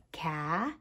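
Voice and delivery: "Caterpillar" with long gaps between syllables, low and soft; one sound group at a time. Shown as a demonstration. Teacher counting with crayons, "Caterpillar" in isolated syllables. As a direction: set ca, ter, pil, lar well apart in "Caterpillar". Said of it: "Now the crayons".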